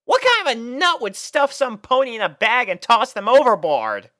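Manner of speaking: high, loud outraged question; indignant Rainbow. A narrator's reading. Rainbow outraged that a pony was tossed in the river. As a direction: demand it in disbelief.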